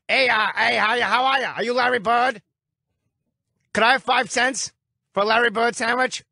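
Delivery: high put-on Boston accent; hammed-up Southie accent; Southie homeless guy. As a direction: beg like a Boston street guy. Host impersonates homeless Southie guy.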